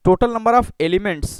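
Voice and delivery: slow, word by word, for students to write; slow dictation. Shown as a demonstration. Teacher dictating a definition to students, slow and deliberate. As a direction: dictate each word slowly. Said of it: "धीरे धीरे मैं पढ़ रहा हूँ".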